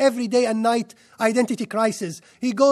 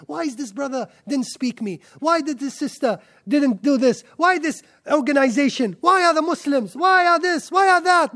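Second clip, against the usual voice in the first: mock negative complaining; 4 semitones higher than usual. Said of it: "The negative energy".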